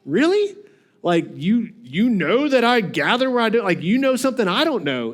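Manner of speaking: a sarcastic rising really; mock incredulous. Master mocking the servant's excuse, sarcastic disbelief. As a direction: scoff in disbelief. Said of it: "his question mark shows he's like".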